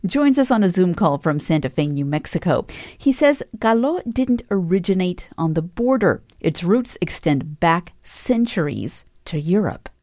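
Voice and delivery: ordinary delivery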